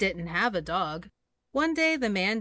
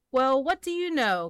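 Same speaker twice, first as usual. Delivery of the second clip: amazed cry; 5 semitones higher, 4 dB louder than usual. Acted. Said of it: "cried the elephant".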